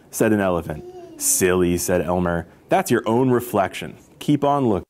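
expressive picture-book narration; story read-aloud. A narrator's reading. Storyteller reading about elephants to children, lively narration.

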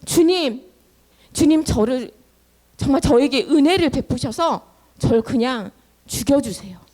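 worn-out begging with halting starts; acted despairing plea. Exhausted Moses begging the Lord to end his life, despairing. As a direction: beg God for release, at your limit. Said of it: "싶을 정도로 모세가 지쳤어".

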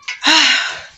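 high, loud exhaled sigh; worn-out "ah" sigh. Real, not acted. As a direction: let out a big tired sigh. Worn out after live stream.

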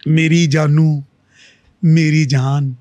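mock-sweet pet names, projected a little; playfully hammed-up husband's endearment; joking endearment. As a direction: call out to your wife in jest. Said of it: "मैं उनको मजाक से कभी कह दूँ".

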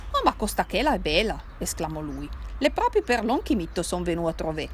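put-on Piedmontese drunk, loud and sure of himself; lightly voiced Piedmontese drunk; tipsy Turinese cousin. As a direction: play the merry drunk relative from Turin.

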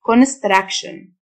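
construction with the ending said "shn"; tion as "shn". Shown as a demonstration. Teacher showing learners how tion sounds, "shn" ending in construction. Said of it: "آي أو إن تنطق شن".

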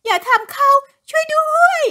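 high, loud, drawn-out plea; wife begs the ghost to spare her husband, screaming; desperate cry for help. A narrator's reading. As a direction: scream for someone to save him. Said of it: "มารีร้องขอความช่วยเหลือ".

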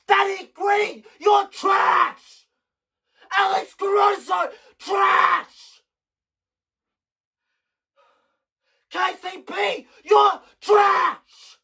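shouting names and calling them trash, pitch up; angry yelling. Real, not acted. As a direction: yell at each player like they're in the room. Fan yelling insults at players.

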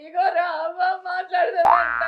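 crying. Acted. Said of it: "ఏడవకే".

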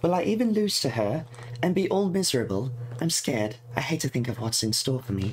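lightly voiced fretful girl reading her diary. Player voicing the game character's diary entries, lightly fretful. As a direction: read it as a worried schoolgirl's diary, lightly put on.

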